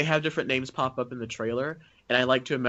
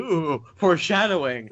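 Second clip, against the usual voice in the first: teasing ooh; 3 semitones higher, 4 dB louder, slower than usual. Acted. Teasing about edited-in joke.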